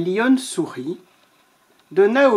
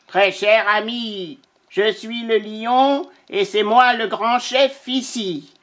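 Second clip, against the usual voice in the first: vulture's letter; 3 semitones higher than usual. Acted. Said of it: "Le vautour écrivit".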